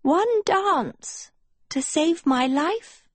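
high, slow plea; pleading. A narrator's reading. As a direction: beg her slowly. Sophie pleading.

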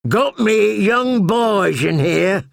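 shouting down. A narrator's reading. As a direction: shout down from the wall. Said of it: "Yoren shouted down".

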